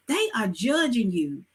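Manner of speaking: ordinary delivery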